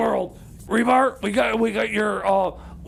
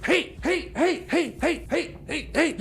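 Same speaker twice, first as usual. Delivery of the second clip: high, yappy barking heys; dog barks as words; 5 semitones higher than usual. Retold or imitated. Quoting the dogs, a high yappy barking hey. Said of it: "all they keep saying is".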